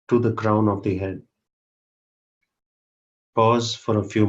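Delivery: unhurried, long pauses between phrases; measured meditation guide, leaving space after each instruction; guided meditation. Real, not acted. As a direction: lead the group into meditation, phrase by phrase. Leads a group meditation.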